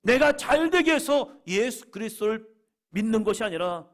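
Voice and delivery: high, loud, driving sermon delivery; impassioned preaching. Real, not acted. Pastor proclaiming Peter's calling to the church, impassioned preaching. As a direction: preach it out with full force.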